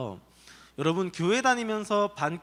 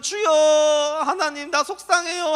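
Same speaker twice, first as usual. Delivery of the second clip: a loud, much higher "주여", drawn out; fervent prayer; 8 semitones higher, 7 dB louder, slower than usual. Acted. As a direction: cry out to God in earnest prayer. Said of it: "얼마나 열심히 기도했던지".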